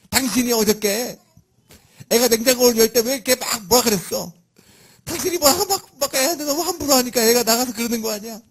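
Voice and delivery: high, loud, heated accusation; wife's accusing outburst. Retold or imitated. Wife scolding husband over their child, high and loud. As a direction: throw the blame at him like the upset wife. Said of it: "째려보더니 그러는 거예요".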